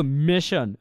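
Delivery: "মেশন" with s as a hushing sh; palatal sh. Shown as a demonstration. Teacher contrasting the other sound of s, palatal sh demo. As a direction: say "মেশন" slowly with an unvoiced sh. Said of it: "আমাদের তালব্য মতো হয়".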